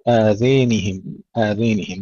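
آذينهم with the a leaning to e; recitation with imala. Shown as a demonstration. Teacher showing the Duri reading. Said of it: "فيها الإمالة".

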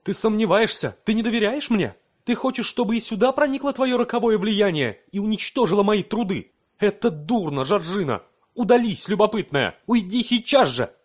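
high, loud furious scolding; angry rebuke. A narrator's reading. Husband orders wife out of his lab: high, loud anger. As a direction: drive her out of the room.

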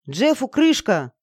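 slow, drawn-out call over the storm; slow shouted warning; shout in her ear. A narrator's reading. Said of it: "крикнул мне прямо в ухо Саша".

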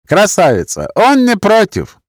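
high, loud and slow, mocking; drunk Roma man. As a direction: drag it out insolently.

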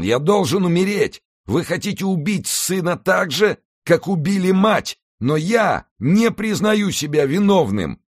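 drowning man pleading, loud and high; desperate young man. Acted. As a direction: beg for your life from the water.

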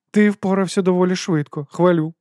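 cool lord praising the thief; Patrician's voice. A narrator's reading. Лорд хвалить злодія, холодно й стримано.

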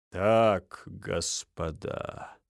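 slow, low, heavy sigh; sighing major. A narrator's reading. Минц sighing at the quarrel, slow and low. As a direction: sigh it out, resigned. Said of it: "вздохнув".

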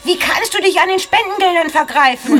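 outraged. Acted. Vorwurf an Finja.

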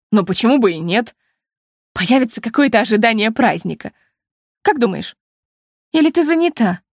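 usual speaking voice

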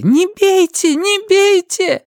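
high, loud pleading woman's scream; Linda's scream. A narrator's reading. Linda screams at the women beating her, high pleading cry. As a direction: beg them to stop, screaming high. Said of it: "И крик Линды".

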